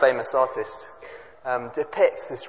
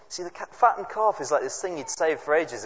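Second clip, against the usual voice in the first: normal talking voice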